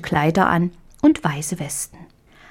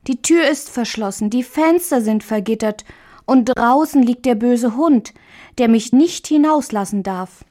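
lightly voiced little girl, pitch raised, explaining her trouble; little girl Marie; 5 semitones higher than usual. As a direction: sound like a worried small girl. Marie's voice held. (kleines Mädchen, besorgt erklärend)

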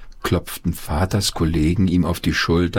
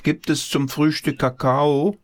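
put-on boy's voice calling; 7 semitones higher than usual. Paul calls to grandma.

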